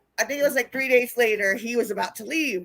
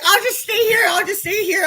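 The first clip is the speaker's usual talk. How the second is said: high, loud imitated begging; mock whining plea; 10 semitones higher, 7 dB louder than usual. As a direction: whine like a drunk begging to stay. Imitates man begging to stay.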